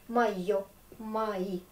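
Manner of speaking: "Mayo" said "maïo" with the stress on the final o; Russian word demo. Shown as a demonstration. Teacher repeats the Russian possessives for her students. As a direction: say "Mayo" with an a sound in the first syllable and stress the end. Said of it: "Donc on prononce avec A".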